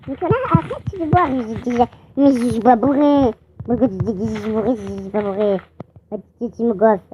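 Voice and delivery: lightly put-on drunken babble; mock tipsy rambling, words running into each other; pretend drunk. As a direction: slur it like a playful fake drunk. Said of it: "J'arrête de faire le bourré".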